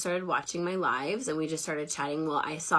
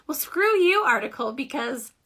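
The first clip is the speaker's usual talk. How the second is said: loud, high-pitched comeback; mock-indignant retort, pitched up and loud; mock defiance; 9 semitones higher, 6 dB louder than usual. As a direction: snap back at it in playful outrage. Acted retort to the article.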